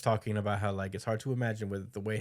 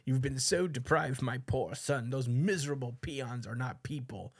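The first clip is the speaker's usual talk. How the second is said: doting father; 4 semitones higher than usual. Retold or imitated. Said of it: "with his dad being like".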